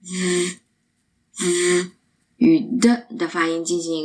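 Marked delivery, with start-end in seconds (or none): 0.0-1.9 z as sustained TH buzz; two long, separate voiced TH sounds. Shown as a demonstration. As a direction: let air flow between tongue and upper teeth on z. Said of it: "让气流从舌上部与上齿间流出".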